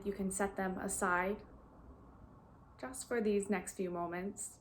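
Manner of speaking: calm, even guiding voice with long pauses; guided meditation. Real, not acted. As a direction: gently lead listeners into stillness, leaving long silences.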